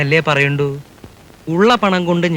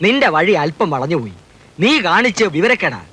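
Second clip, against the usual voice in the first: quavering temple oracle, lightly voiced; wavering voice of a possessed oracle; trembling possessed oracle; 3 semitones higher than usual. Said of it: "അതല്ല വെളിച്ചപ്പാടെ". (വിറയ്ക്കുന്ന സ്വരത്തിൽ വെളിച്ചപ്പാട്)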